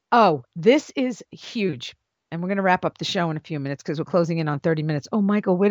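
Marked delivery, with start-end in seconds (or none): 0.1-2.0 mock hype. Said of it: "If you say".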